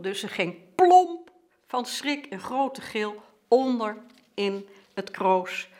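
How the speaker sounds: excited storytelling. Retold or imitated. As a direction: build up the drama of the charging swans. Climax of swans charging at sister.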